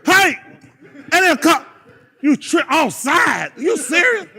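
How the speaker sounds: loud, incredulous coach yelling at a player; hammed-up angry shout; mock yell. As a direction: bark at him like a furious coach. Retelling yelling at offside player.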